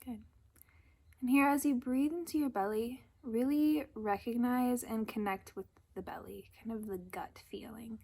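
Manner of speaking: calm, unhurried guidance with long pauses; gentle meditation leader's delivery; guided meditation. Acted. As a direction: ease listeners into breath and body, leaving space. Leads a breathing meditation.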